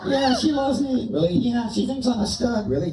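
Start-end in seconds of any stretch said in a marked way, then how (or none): 0.1-1.1 squeaky high puppet voice, shouted out; a cheeky dummy yelling hello from the box; ventriloquist dummy Bob. Acted. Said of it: "we're gonna do some ventriloquism here". 1.3-2.7 squeaky high puppet voice, shouted out; a cheeky dummy yelling hello from the box; ventriloquist dummy Bob. Acted. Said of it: "we're gonna do some ventriloquism here".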